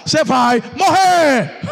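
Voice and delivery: loud slow declaration; prophet's blunt verdict. Retold or imitated. Isaías tells the king he will die, loud and slow. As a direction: drop the verdict like a hammer. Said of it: "O Isaías chega pro rei e fala".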